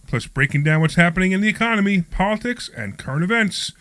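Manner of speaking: upbeat radio host introduction; show intro read. Acted. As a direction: announce the show with polished energy.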